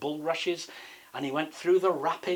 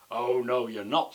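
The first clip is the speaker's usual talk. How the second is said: mildly menacing storybook troll; a touch louder, firm; firm troll refusal; 4 dB louder than usual. Acted. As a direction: refuse as if you mean it. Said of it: "And he meant it".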